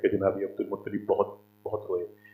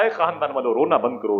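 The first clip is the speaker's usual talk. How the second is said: loud anguished call to the family; mother calling out; 5 semitones higher, 6 dB louder than usual. Acted. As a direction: call out to stop the weeping. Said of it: "मैंने कहा". (ऊँची पुकार)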